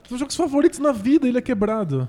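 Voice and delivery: fast, laughing gush. Real, not acted. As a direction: blurt it out through a laugh. Gushing with laugh.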